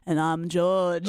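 slow, deadpan George intro; a hint of George, drawn out slowly; impression of a singer. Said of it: "That was a very good impression".

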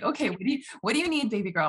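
mother herself kindly; gentle self-talk. Retold or imitated. Mother soothing herself as baby girl, gently. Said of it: "I talk to myself. So I'll say".

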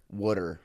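"Water" copied Philly style, WOOD-er; Philly pronunciation. Retold or imitated. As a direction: repeat "Water" as "wooder". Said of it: "what we call water".

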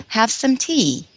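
slow, carefully spaced demo phrase; slow teacher demonstration; slow, clear model. Shown as a demonstration. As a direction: say it slowly so it echoes. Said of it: "So listen to me".

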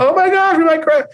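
a pilot losing it over the intercom; shrill-free but sky-high alarmed cry of a pilot freaking out; panicking pilot. Acted. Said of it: "you want the captain freaking out".

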